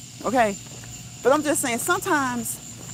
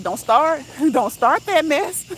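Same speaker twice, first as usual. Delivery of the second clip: louder, higher playful scolding; mock warning; 4 semitones higher, 4 dB louder, slower than usual. Scolding girlfriends over their grammar, mock warning. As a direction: warn them off, half laughing.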